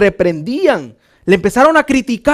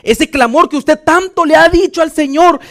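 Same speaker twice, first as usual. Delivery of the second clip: higher, forceful preaching to the congregation; predicación enérgica; 4 semitones higher, 5 dB louder than usual. Real, not acted. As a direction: press each question on the congregation. (prédica enérgica, en voz alta)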